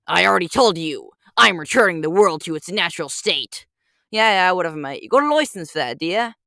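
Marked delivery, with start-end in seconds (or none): 4.1-6.3 put-on British accent, calling out the Lorax. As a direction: heckle in a thick British accent. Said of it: "British Walrus Detective".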